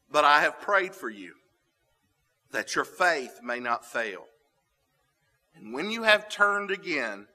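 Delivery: measured, solemn Bible reading; scripture reading. Acted. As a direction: read the words of Jesus with weight. Reads Luke 22 aloud.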